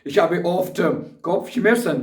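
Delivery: very slow, every German word spelled out for learners; slow dictation. Shown as a demonstration. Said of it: "ये भी आप कह सकते हैं".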